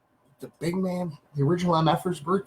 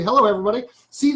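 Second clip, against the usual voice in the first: ordinary delivery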